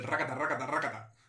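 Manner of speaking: rattled-off "racata"; tongue exercise demo. Shown as a demonstration. Host confirming the exercise for better pronunciation, rattled racata. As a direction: repeat the nonsense syllables like a drill. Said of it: "le coges la lengua y le haces racata".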